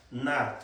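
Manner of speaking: "nar" con la A doble, alargada; acento en la primera. Shown as a demonstration. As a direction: say "nar" with a long, stressed double A. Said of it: "con acento en la primera". ("nar" con doble A acentuada)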